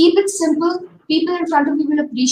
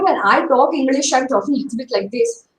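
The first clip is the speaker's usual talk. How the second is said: light imitation of a South Indian accent. Imitating self-conscious South Indian friends, light South Indian accent. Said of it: "I have South Indian friends who are very nervous".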